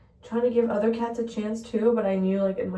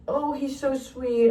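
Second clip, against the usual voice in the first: slow, higher adoring coo; drawn-out, affectionate gush; gushing fondness; 4 semitones higher, slower than usual. Retold or imitated. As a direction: imitate someone doting on a cat. Retells worker adoring the cat.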